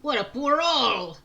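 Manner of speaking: lightly voiced gruff old pirate; a hint of a salty sea captain. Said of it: "doing the pirate voice is really hard".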